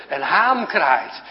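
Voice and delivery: drawn-out clear statement; slow emphatic teaching. Shown as a demonstration. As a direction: say "Een haan kraait" very slowly, word by word. Teacher repeats slowly.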